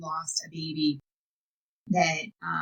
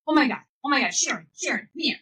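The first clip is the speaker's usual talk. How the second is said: retold scream; 7 semitones higher, faster than usual. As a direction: yell for your wife as if something is wrong. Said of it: "he starts screaming to my stepmom".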